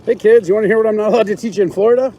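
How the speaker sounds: light, cheery teacher voice; singsong talking to kids; kindergarten teacher voice. Retold or imitated. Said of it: "it's like lesbian kindergarten teacher".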